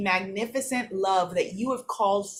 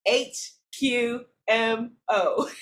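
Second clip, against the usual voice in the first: laughing; 3 semitones higher, much slower than usual. Real, not acted. Laughing at her own acronym.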